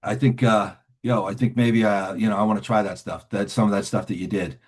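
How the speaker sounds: casual, hesitant slangy request; streetwise casual pitch. Retold or imitated. Newcomer asks a man to sponsor him, casual and hedging. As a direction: hedge the big ask with street talk. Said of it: "that's the way I talk".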